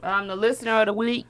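talking through a mouthful of candy; chewing while talking. Real, not acted. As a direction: speak round a bite of candy. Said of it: "Sorry, I'm eating".

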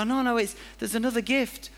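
high, pleading insistence; insistent giver. Retold or imitated. Giver pressing the recipient to open the last gift, high and pleading. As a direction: urge them not to give up on it.

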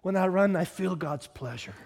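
lightly quoted with a hint of Scottish; earnest line in a mild Scottish accent; attempted Scottish accent. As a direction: try a gentle Scottish lilt. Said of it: "That's my best Scottish accent".

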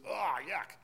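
a light put-on "yuck"; mock disgust. Preacher voices the sour wine's taste, mild mock disgust. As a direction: lightly voice someone tasting something foul. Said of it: "It was".

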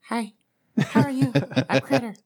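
high bright nervous greeting; forced cheery intro. Shown as a demonstration. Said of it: "oh, I'm on the spot".

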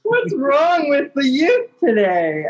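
a slow put-on old man lament; mock old grump. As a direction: shake your head at the youth. Mock rant, youth today.

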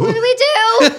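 high, loud, laughing wail; desperate wail. Retold or imitated. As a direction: wail it like you're lost. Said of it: "we're like".

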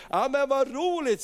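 high, delighted exclamation; cheery banker. Retold or imitated. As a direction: react with lively pleasure. Bank director welcomes the house plan. (glatt, förtjust utrop)

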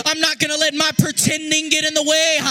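half-sung preaching rising over the music; impassioned preaching. Acted. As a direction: preach it like a song, building up.

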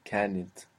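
كانت said carefully with a falling close; clear model word. Shown as a demonstration. Teacher models كانت for the student.

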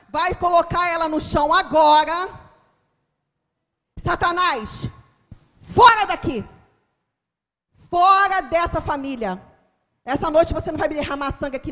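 loud, high shouted commands; fierce exorcism shout; furious rebuke. Retold or imitated. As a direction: cast the devil out at full voice. Rebuking Satan and the man with a knife.

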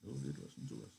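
Candy giving up against the wife; resigned. Acted. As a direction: give in quietly. Candy subsided, agreeing.

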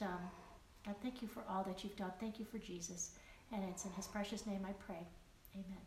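hushed, earnest spoken prayer; a soft prayer fading toward the amen; closing prayer. Acted. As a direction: pray quietly and sincerely to God. Closes the session in prayer.

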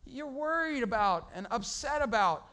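Jesus gently correcting Martha; gentle Jesus. Retold or imitated. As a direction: say it gently and slowly.

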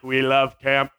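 lightly mocked hypnotized reply, low; a hint of mock trance; entranced followers. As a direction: parrot it back as if under a spell. Crowd parroting the Jedi back.

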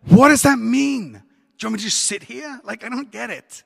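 high-pitched baffled outburst, starting loud and easing off; mock exasperation. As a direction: protest in hammed-up bafflement. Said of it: "drives me mental".

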